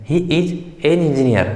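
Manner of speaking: reads the corrected sentence very slowly and evenly; slow answer read-out. Shown as a demonstration. Teacher reading the answer to the class, very slowly. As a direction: lay out each word slowly for students. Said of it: "तो इस स्वर का आगे क्या आ जाएगा? N.".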